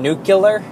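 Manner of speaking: "nuclear" said as "NOO-kyuh-ler"; wrong pronunciation. Shown as a demonstration. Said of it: "very incorrect pronunciation".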